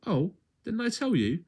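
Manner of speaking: playful narrator aside. A narrator's reading. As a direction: lean in, a little teasing.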